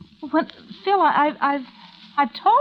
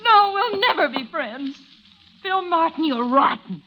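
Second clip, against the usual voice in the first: crying outburst; 2 semitones higher than usual. Acted. Ann crying as she tells Phil off, sobbing.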